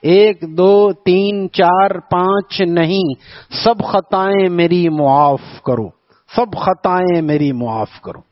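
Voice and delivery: a light mimic of the poet, slow and drawn out; imitating the poet's recital. Preacher imitates Nuh Narvi's verse style, slow mock recital. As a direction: draw the verse out like a poet on stage. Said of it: "اس کا ایک انداز تھا".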